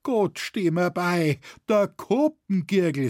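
alarmed dialect outcry; crying out. A narrator's reading. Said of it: "rief er".

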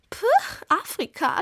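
mocking, amused dismissal; laughing scorn. A narrator's reading. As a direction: scoff at the very idea. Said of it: "lachte wieder die Girundel".

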